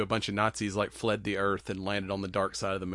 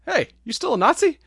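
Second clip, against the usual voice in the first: much higher, teasing accusing voice; high mock voice; 8 dB louder than usual. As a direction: call him out in a high mock voice. Indiana Jones questions a guy.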